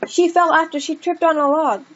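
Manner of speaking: half-hearted bossy reading; mock command. Shown as a demonstration. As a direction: try "She fell after she tripped on a log" as a command. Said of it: "Is it really commanding something?".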